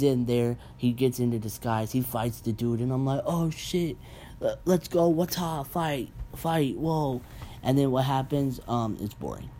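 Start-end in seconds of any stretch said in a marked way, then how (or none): 3.2-7.2 high, excited hype at a fight; hyped up. Retold or imitated. Viewer cheering the sauna fight, high hype. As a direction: cheer like you're watching a brawl.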